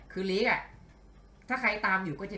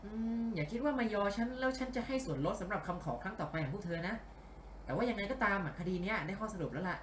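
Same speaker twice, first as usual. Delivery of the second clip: a hint of a composed female detective; lightly voiced detective boss; 5 semitones higher than usual. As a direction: lightly act the boss reasoning out a case. (พากย์เบาๆ เป็นนักสืบหญิงกำลังวิเคราะห์)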